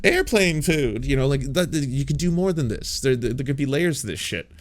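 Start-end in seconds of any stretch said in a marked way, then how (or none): 0.0-1.0 high, slow mock observational comic; mock Jerry Seinfeld voice, high and drawn out; Seinfeld-style standup. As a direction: parody a stale standup bit. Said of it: "you sit there and you're like".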